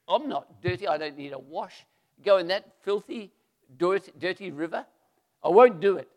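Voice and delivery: building to a loud indignant refusal; acted sulky general flaring up; angry refusal. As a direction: refuse it, offended, rising to a shout. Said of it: "sulking and angry".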